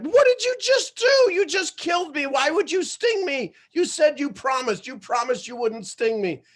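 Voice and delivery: very high, loud shocked cry fading down; stung turtle shrieks in disbelief, then pleads; betrayed turtle. Acted. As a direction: wail at the betrayal, then wind down.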